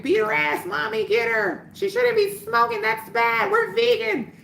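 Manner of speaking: put-on a light, high-pitched kid voice for the cheering children; lightly voiced excited children egging Mommy on.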